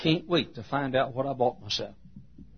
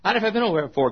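high, louder protesting fish; 9 semitones higher, 5 dB louder, much faster than usual. Acted. Fish objecting to God, high-pitched protest. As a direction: voice a reluctant little fish. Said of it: "And the fish says".

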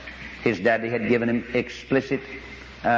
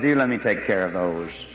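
reassuring voice of God; 3 semitones lower than usual. Retold or imitated. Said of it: "God said".

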